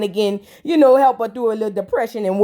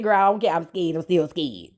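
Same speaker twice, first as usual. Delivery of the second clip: mock scared; 8 semitones lower, 5 dB quieter than usual.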